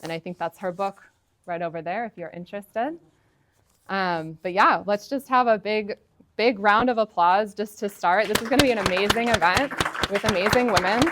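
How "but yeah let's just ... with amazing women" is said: excited. Real, not acted. Hosts call for big applause.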